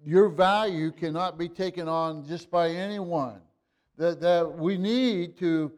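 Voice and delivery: impassioned pulpit exhortation; preaching at full force. Acted. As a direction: drive it home to the congregation. Rising sermon climax.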